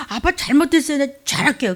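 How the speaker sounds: put-on high, loud childlike plea to daddy; pleading child. Believer pleading to Father God, high childlike plea. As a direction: beg like a sorry little kid.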